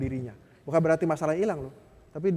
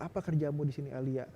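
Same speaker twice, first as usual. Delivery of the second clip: soft, gentle question from God; 4 dB quieter than usual. Retold or imitated. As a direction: ask it tenderly, almost hushed. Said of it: "Sangat lembut". (bertanya dengan sangat lembut)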